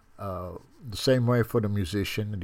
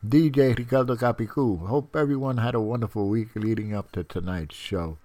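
stuffy nose; 4 dB louder than usual. Real, not acted. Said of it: "if I sound a little stuffy, it's because I am".

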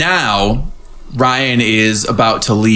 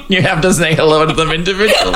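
laughing; 4 semitones higher, faster than usual. Real, not acted. Laughing while talking.

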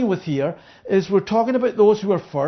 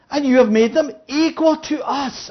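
indignant outburst; 3 semitones higher than usual. Acted. Grumbling worker quoted.

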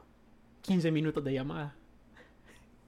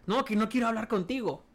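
retold caller; 6 semitones higher than usual. Retelling an angry caller refusing him.

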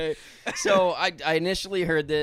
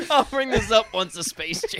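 mock quote laughing; 7 semitones higher than usual. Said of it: "joins the mock quote".

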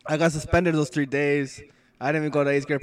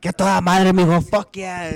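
loud, higher cheering; imitated proud dad; 5 semitones higher, 7 dB louder than usual. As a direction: congratulate your son loudly, in imitation.

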